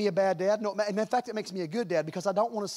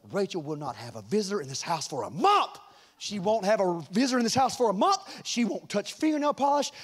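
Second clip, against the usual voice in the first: mom breathing fire. Retold or imitated. Wife announcing the daughter's punishment to her husband, fuming. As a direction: imitate a fuming mom laying down the law. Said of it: "moms get when they're breathing fire".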